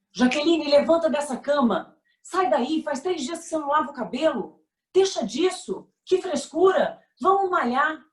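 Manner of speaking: hammed-up personal trainer friend, prodding; pushy friend. Friend badgers depressed Jaqueline out of bed, mock bossy. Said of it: "aparecem os amigos personal trainer".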